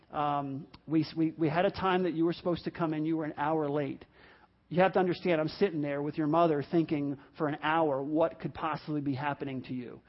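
sit the son down and explain earnestly; calm, earnest parent explaining himself; sincere apology. Shown as a demonstration. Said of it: "sit down with your son and say".

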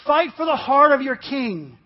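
rally the men with a measured cry; battle cry. A narrator's reading. Douglas surrounded in battle, crying out to his men, restrained battle cry. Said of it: "and cried out".

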